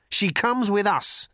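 high, insistent challenge; insist, standing up to a rival; defiant demand. A narrator's reading. Arthur defies Thor.

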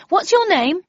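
high, loud question called out; shouting to a passerby. A narrator's reading. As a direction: call across to a stranger, pitch lifted. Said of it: "shouting to a passerby".

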